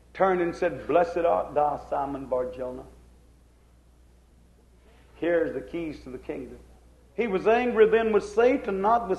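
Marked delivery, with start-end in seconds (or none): 0.9-6.6 lower, softened blessing; beautiful gentle voice. Acted. Lord turning to bless Simon Bar-Jonah, gently. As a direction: bless him gently, pitched down. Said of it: "with the same beautiful voice".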